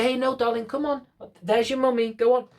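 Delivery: put-on sweetly steer the kid back; coaxing a child.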